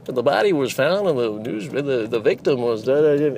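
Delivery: American newsreader read; dramatic news anchor delivery. Shown as a demonstration. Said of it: "American version be like".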